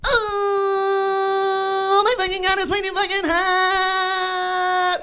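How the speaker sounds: high pained wailing yell, very slow; Aziz Ansari burnt tongue. Retold or imitated. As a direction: howl like your tongue is scalded. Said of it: "Aziz Ansari burning his tongue on a pizza roll".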